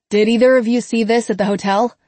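muffled, fast, through a wall. A narrator's reading. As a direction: call it from behind a wall, muffled. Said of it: "Grady's muffled voice through the stand walls".

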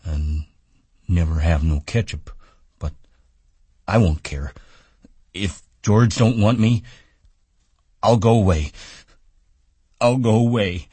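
sulky giant threatening to leave; sad Lennie. A narrator's reading. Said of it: "he continued sadly".

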